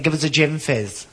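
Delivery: slow, lightly camp order; camp customer. Acted. Camp man ordering from the barman, slow coy voice. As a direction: draw out the order with a camp touch. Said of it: "I'm only acting when I do this".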